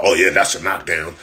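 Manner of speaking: lightly mock the commentator calling a knockdown; a hint of a clueless announcer. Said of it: "talking about".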